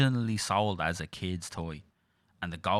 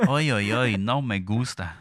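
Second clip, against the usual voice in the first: loud, higher mock Mexican voice; mock Mexican accent; 4 semitones higher, 6 dB louder than usual. Riffing on Mexicans stealing the hands, mock Mexican accent.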